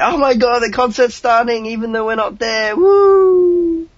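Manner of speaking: high squealing fangirl excitement; excited squealing. Retold or imitated. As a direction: squeal it like the concert's starting. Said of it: "and we're like".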